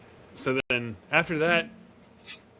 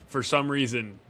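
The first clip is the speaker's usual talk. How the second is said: ordinary delivery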